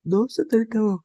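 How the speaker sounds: narrated tearful wail, rising pitch; mock crying. A narrator's reading. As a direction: act out a brief whine through tears. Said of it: "Sita ఏడుస్తూ". (ఏడుస్తున్నట్టు నటిస్తూ)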